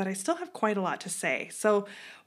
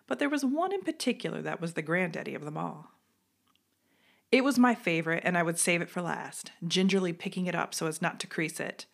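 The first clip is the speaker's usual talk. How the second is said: storytelling voice. Acted. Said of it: "my best storytelling voice".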